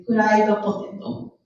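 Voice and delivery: "fried potato" with Japanese vowels added, furaido poteto; Japanese English accent. Shown as a demonstration. Teacher naming French fries, Japanese English accent. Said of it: "English accent is fried potato".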